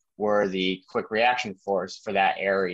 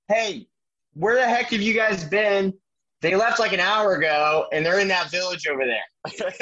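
higher, louder mock Australian accent; 9 semitones higher, 3 dB louder than usual. Australian soldier teasing the late Americans, Australian accent. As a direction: tease them in a loud Australian accent. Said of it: "like, Australian voice".

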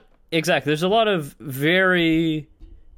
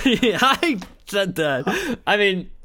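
mock James Cameron; 7 semitones higher, slower than usual. Jokingly voicing Cameron.

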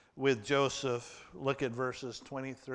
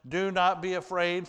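raised, firm and reassuring; firm reassurance; 3 semitones higher, 4 dB louder than usual. Acted. Joseph tells his brothers, raised and firm. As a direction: call it out to calm them down.

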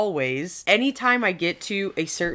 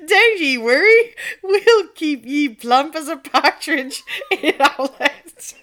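put-on high, loud Scottish accent cracking into laughter; 9 semitones higher, 10 dB louder than usual. Peasant DNA reassuring its owner, laughing Scottish accent. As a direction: ham up the Scottish till you crack up. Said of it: "The accent".

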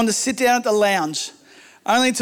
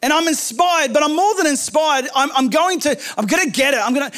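bold resolve; 5 semitones higher than usual. Retold or imitated. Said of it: "had the boldness to say".

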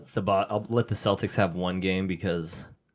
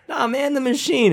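much higher, louder teasing insistence; mock insistent coworker; 5 dB louder than usual. Retelling a sketch to friends, high teasing coworker voice. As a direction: push the nickname on him, laughing.

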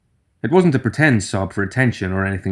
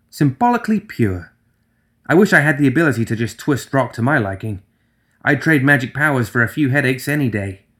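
higher, chipper cheering up; Nelly's voice; 3 semitones higher than usual. Acted. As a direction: brighten the mood gently.

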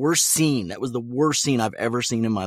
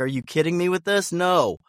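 incredulous refusal; 7 semitones higher than usual. Retold or imitated. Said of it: "go like".

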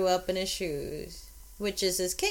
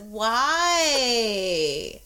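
laughing why; 5 dB louder than usual. Retold or imitated. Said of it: "I was like".

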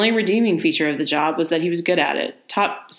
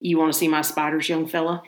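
put-on southern accent. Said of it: "I'm gonna do a southern accent".

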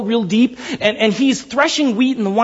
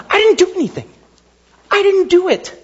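earnest disclaimer; 9 semitones higher than usual. Retold or imitated. Acting Peter disowning the credit.

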